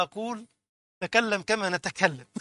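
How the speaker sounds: slow, deliberate classical Arabic, mocking a pedant. Preacher mocking a pedant, in slow formal Arabic. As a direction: spell it out slowly in stiff formal Arabic. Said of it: "قلت له".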